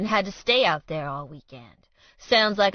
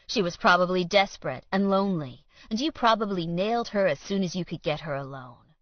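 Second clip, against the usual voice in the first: taunting; 2 semitones higher, 4 dB louder, faster than usual. Acted. Villain taunting rival in confrontation.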